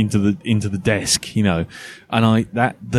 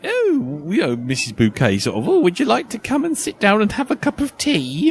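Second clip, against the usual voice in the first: much higher, put-on posh hostess airs; posh Missus Bouquet voice; 11 semitones higher than usual. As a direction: nan putting on airs and graces for the guests, high and prim. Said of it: "she would put on like".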